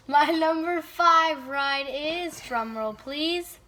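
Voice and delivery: slow build, then a high shouted reveal. Acted. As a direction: announce it like a big reveal. Drum roll reveal.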